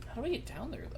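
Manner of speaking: talking through a yawn. Real, not acted. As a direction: yawn mid-sentence. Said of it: "Sorry, I yawned".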